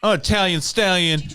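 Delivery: fast, loud boastful show-off imitation; hammed-up bragging guy; mock braggart. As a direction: strut through it like a cocky loudmouth. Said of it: "he was like".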